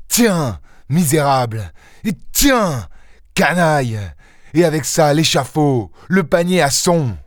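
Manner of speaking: aigu et rageur, sans crier plus fort; fureur. Acted. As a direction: cracher ses insultes, haut perché. Lupin frappe l'assassin en l'insultant. (Lupin insulte l'assassin avec une rage aiguë)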